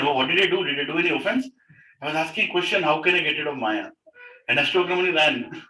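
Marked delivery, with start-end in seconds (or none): 0.0-3.9 higher-pitched, mildly dismayed questioning; worried self-questioning. Acted. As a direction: wonder anxiously what you did wrong. Acts out puzzled, worried king.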